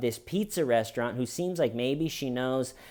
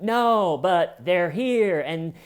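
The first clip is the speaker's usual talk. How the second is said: higher, louder flustered protest; mock panic; 5 semitones higher, 5 dB louder, slower than usual. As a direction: sputter out a frightened no. Panicked answer to dispatcher.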